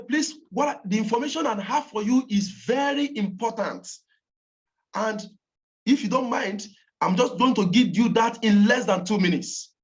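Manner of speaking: firm phone pitch, key words punched; emphatic. Shown as a demonstration. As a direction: deliver it with serious insistence. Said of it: "Say it emphatically".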